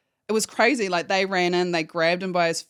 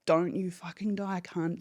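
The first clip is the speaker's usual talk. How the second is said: muttered, fierce swearing through the effort; low fierce swearing; 5 dB quieter than usual. Retold or imitated. Swearing at the dying man while doing CPR, low and fierce. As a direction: curse at him under your breath, desperate. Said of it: "I'm swearing in his face".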